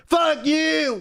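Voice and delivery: sudden high-pitched mock scream; belted out. Passenger randomly screaming mid-conversation, belted-out mock yell. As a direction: belt it out abruptly, imitating an aggressive yell. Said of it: "he randomly just belts out".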